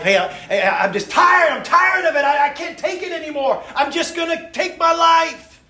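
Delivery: high, loud, strained cry of despair; imitating a distraught brother screaming down the phone; desperate screaming. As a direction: shout it like a brother at the end of his rope. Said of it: "and he's yelling, and he's screaming".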